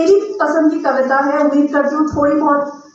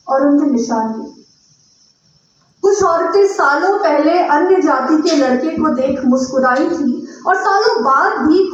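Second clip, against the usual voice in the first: measured recital with pauses between phrases; poetry recitation. Acted. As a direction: recite your poem to an audience, phrase by phrase. Recites her own poem.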